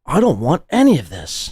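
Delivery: lightly mocking echo of a timid line; mocking quote. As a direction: parrot his words to sneer at them. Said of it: "Wow, he's literally backing down".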